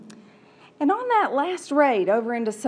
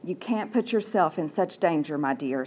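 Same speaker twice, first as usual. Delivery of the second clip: tender mother; 5 semitones lower, 4 dB quieter than usual. Acted. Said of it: "said Nahare's mother".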